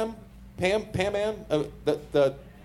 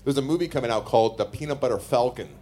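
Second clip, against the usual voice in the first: wrestling promo voice; 3 semitones lower than usual. Acted. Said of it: "Did you just do a wrestling promo".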